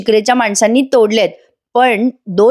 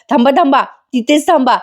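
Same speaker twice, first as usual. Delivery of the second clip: stop cry through laughter; 4 semitones higher than usual. Acted. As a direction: hold them back while stifling a laugh. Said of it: "sorry हं प्रेक्षकांनो, मला जरा हसू आलं". (हसू आवरत जोरात थांबा म्हणणे)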